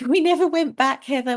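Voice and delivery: a laugh breaks in, voice jumps high; giggling at the irony. Real, not acted. Guest laughing to Heather that they never went back.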